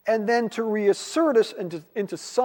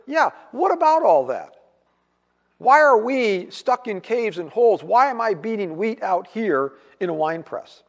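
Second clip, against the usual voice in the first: mildly exasperated, a bit louder and pushier; frustrated complaint; 2 semitones higher, 3 dB louder than usual. Retold or imitated. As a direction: voice Gideon's grumble at God, half-acted. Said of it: "to support his own frustration now".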